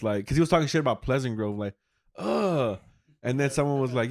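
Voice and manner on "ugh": higher-pitched groan of distaste; imitated scornful ugh; mock disgusted "ugh". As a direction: groan as if revolted. Imitating comic's disgust at town.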